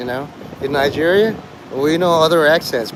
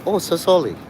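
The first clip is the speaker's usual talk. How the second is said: put-on Chinese accent, apologising; lightly mocking Chinese accent; 2 semitones higher than usual. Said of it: "with a Chinese person".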